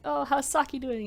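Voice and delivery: high, friendly polite question; polite sweet ask. Retold or imitated. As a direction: ask sweetly after Saki.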